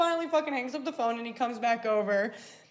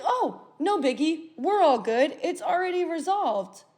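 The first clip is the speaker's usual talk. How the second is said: higher-pitched mock nonchalance; breezy brush-off; 5 semitones higher than usual. Him back from the phone, playing it down breezily. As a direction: imitate him airily waving it away. Voicing his casual brush-off.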